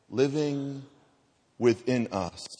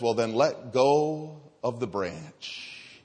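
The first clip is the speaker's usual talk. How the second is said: voice of God; much slower than usual. Acted. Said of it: "the voice of God came down".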